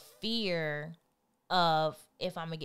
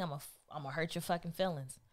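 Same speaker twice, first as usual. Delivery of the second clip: threat; 7 dB quieter, faster than usual. Acted. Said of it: "I used to tell him".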